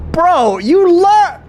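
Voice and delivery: high, loud, slow frustrated yell; exasperated yell. Real, not acted. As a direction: cry out in disbelief. Exasperated outburst at game.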